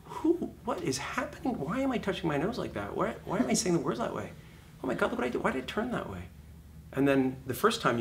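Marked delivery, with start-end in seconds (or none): 0.0-6.2 mock dismay. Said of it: "you go".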